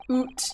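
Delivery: "Oot" with a long oo for out; Scottish "oot". Shown as a demonstration. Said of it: "I love the word oot".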